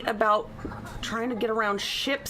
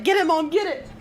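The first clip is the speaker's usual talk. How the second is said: dog voice; 7 semitones higher, 5 dB louder than usual. Pretend. Voicing dog wanting scratches.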